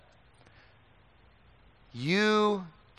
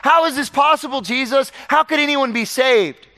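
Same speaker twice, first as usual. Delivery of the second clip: high, loud, incredulous asker; higher and louder voice for the doubting questioner; questioning voice; 11 semitones higher, 7 dB louder than usual. Retold or imitated. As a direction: act out someone who cannot believe it.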